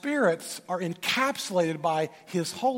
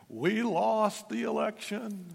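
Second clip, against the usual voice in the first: imitating an upset woman; 6 semitones higher, slower than usual. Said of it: "She's just shaking and so upset".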